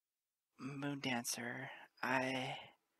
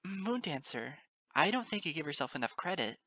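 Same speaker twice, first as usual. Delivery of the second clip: exclaim. Acted. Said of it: "I exclaim".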